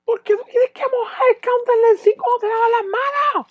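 very high, crying shout; shrieking girlfriend. Retold or imitated. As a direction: screech about the wet counter. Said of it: "Y ella decía". (chillido muy agudo de la novia regañando)

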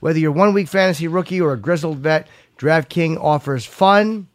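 measured sponsor read. Real, not acted. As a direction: sell it playfully, punching key phrases. Reads sponsor copy.

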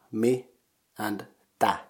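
"mi" and "tä" as separate syllables. Shown as a demonstration. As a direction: model "mi", pause, then "tä". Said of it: "mitä consists of two syllables".

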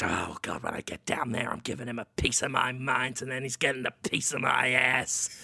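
low grumbling curses under his breath; muttering hermit. Acted. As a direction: grouse to himself on the stairs.

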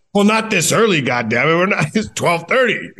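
high-pitched mock exasperation; imitated exasperated manager. Manager to rookie who turned up too early, mock exasperated.

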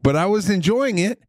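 worked-up high-voiced radio rambling. Real, not acted. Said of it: "saying this with a high tone of voice".

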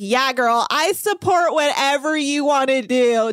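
breeze through, not listening; mock indifferent friend. Mocking drunk uninterested friend.

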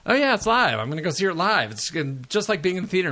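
hammed-up giddy past self, sure it's live; mock-thrilled self quote; naive excited self. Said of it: "And I kept thinking".

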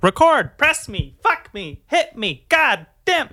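high, pleading voice of the blinking light; pleading record light. Pretend. The red record light begging the host, high and pleading. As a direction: beg like a taunting gadget. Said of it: "The red light was like".

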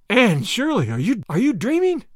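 can't believe what she hears; shocked disbelief. A narrator's reading. Marilla shocked by the news.

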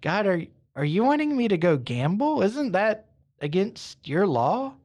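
acted bewilderment, stretching the final question; very confused. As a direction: ask it puzzled, pitch swooping up. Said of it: "he's very confused".

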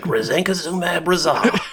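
high, slow announcer voice with a laugh; radio guy voice. Retold or imitated. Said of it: "like, a radio guy voice".

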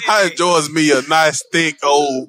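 slow, lightly mocking put-on Southern voice; Robert Downey Junior in Tropic Thunder. Friend mimicking his buddy's accent slip, lightly mocking put-on voice. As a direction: mimic it slowly, a touch hammed-up. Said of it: "Why you sound like Robert Downey Junior Tropic Thunder?".

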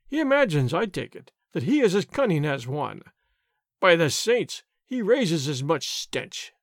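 a blustering sergeant's mild rant; angry tirade. Acted. Sergeant ranting at the soldiers and landlord, a mild angry bluster. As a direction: rant about the outlaw with rising scorn. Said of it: "continued his tirade".

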